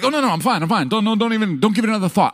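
high, breezy "I'm fine" insistence; playing it off lightly; mock brush-off. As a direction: wave off the fuss cheerfully. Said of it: "and I'm like".

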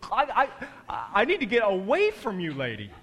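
high, loud panicky plea; feeling choked. Retold or imitated. Pastor cornered by chatty mom, high loud panic. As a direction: blurt it out, cornered. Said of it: "I'm feeling choked".

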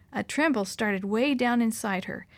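usual speaking voice

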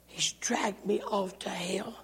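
slow, breathy near-whisper; fading, haunted whisper; hushed dread. Retold or imitated. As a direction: whisper it as the horror closes in. Dying man's dread in retold story.

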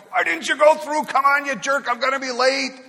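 high loud furious yell; impatient driver. Retold or imitated. Woman in a hurry yells at the driver in front, high and loud. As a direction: rage at the car ahead. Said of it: "beeping and honking".

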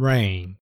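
"Rain" said clearly as ren, a model to repeat; teacher prompting kids to repeat "Rain"; English word demo. Shown as a demonstration. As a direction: model "Rain" for the children to echo. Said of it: "もう一度雨を英語で言ってみましょう".

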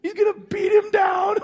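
high, loud eager cheer; gloating crowd shout. Acted. Preacher voicing a crowd eager to see the son punished, loud cheer.

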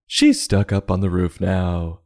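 ordinary talk

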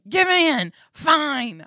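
loud, high exasperated outburst; unhappy surrender. Retold or imitated. Woman giving in to the Lord, not happy, loud outburst. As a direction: cry it out as a grudging surrender. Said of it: "I was not happy about it".

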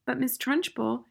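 put-on high little-boy voice; high-pitched schoolboy objection; small boy, protesting. A narrator's reading.

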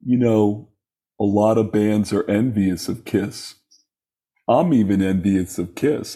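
slow, self-assured rock-star impression with pauses; a rock frontman. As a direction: imitate a supremely confident frontman, unhurried. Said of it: "Paul, why is Kiss so amazing?".

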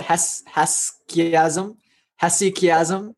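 "Hesychiasm" tried tentatively with a questioning rise; unsure pronunciation. Real, not acted. Teacher forgetting how to pronounce "Hesychiasm", unsure and questioning. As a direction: stumble on "Hes-", then sound out "Hesychiasm" as a question. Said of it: "I forget how to pronounce that".

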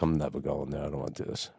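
breathy whispered aside to himself; private inner voice. Retold or imitated. Ducking Doug's call, whispering his real thought to himself. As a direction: whisper it under your breath, dreading it.

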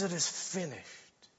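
very soft and slow; Jesus dying, very soft and slow; final words. Retold or imitated. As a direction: let it fall quietly, spent.

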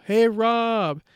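high-pitched, drawn-out calling; mock yell. Imagined yell that skinwalkers would overhear, high mock yell. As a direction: call out as if to a distant friend. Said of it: "me yell".

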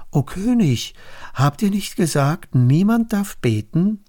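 lightly voiced informers cornering the king; accusing courtiers. Princes remind the king of his law, accusing. Enemies report Daniel to king.

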